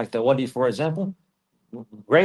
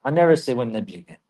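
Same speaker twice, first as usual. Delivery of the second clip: blurted slip; 2 semitones higher, 3 dB louder than usual. Retold or imitated. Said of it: "You know".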